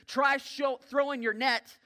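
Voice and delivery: high, loud call from shore; calling out a suggestion. Acted. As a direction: holler advice out to the boat. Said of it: "the man from shore actually then suggested".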